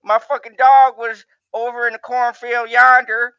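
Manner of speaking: a hint of a southern yokel. Playing Billy Bob from the trailer park, lightly southern. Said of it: "I'm gonna get my southern voice out for this".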